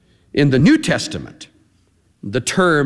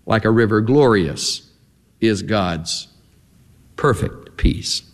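hymn recited; 3 semitones lower, slower than usual. Real, not acted. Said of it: "we love to sing them".

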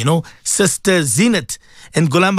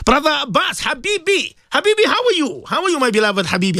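excited greeting; 9 semitones higher than usual. Real, not acted. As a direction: greet him like a dear brother, pitched up. Host warmly greets a caller.

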